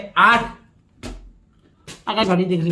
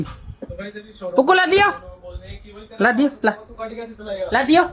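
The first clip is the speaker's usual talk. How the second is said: put-on drawn-out baby talk; 2 semitones higher, slower than usual. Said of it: "देखना इसका reaction".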